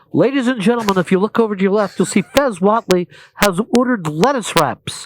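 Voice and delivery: loud public-address style proclamation; mock announcer. Host teases Fez about lettuce wraps, loud announcer voice. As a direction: boom it out to the whole room. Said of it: "more of an announcement like this".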